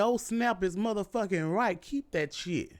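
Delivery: blunt, unimpressed comeback; flat defiant reply. Retold or imitated. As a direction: throw their words back, defiant. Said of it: "I said".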